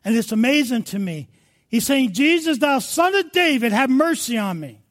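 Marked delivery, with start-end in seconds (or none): 2.1-4.8 crying out. Acted. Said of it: "He's crying out to God".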